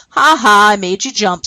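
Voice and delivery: teasing, spoken "ha ha"; lightly acted gloating boy; mocking laugh. Boy to the fooled sheep herder, teasing gleefully. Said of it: "started pointing and laughing at him".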